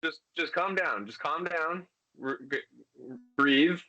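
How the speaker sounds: high, urgent soothing; firm high reassurance to a frightened padawan; calming master. Acted. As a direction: talk a panicking student down. Master calming panicked student.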